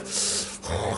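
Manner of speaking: soft voiceless puff of breath; imitated cold huff. Men waiting by the fire, mock chilly huff. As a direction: blow out like someone freezing.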